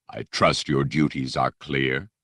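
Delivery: low, smooth, polite threat; lightly voiced Dark Lord; silky menacing Vader. Vader dismissing the Jedi, silky and menacing. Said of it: "that silky, menacing voice".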